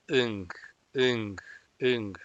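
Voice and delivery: "ing" closed with a nasal ng in the back of the mouth; repeated ng drill; ng ending. Shown as a demonstration. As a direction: hum out the ng at the end. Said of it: "al final suena como N G".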